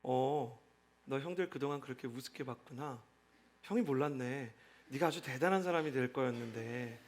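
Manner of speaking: low, hushed, icy sarcasm; quietly cutting older-brother contempt; cold verbal abuse. Shown as a demonstration. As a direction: demonstrate cold anger, voice dropped and soft. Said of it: "근데 차가운 폭언이 있어요".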